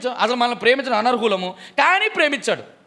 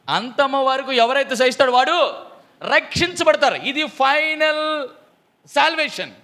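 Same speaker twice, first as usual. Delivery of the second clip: rising preaching climax; 5 semitones higher, 5 dB louder, slower than usual. Acted.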